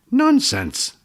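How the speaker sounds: put-on old healer snapping at her patient; sharp snap. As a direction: bite his head off with one word. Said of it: "the old woman snapped".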